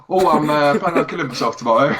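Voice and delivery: barely holding back laughter; retold joke, cracking up. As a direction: deliver the punchline while losing it. Retelling sitcom joke, breaking into laughter.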